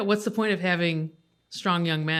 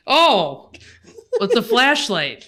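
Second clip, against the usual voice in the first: dazzled and startled; surprised; 4 semitones higher, 6 dB louder, slower than usual. Retold or imitated. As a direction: squint at a bright light. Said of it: "this is how everyone picked up the flashlight".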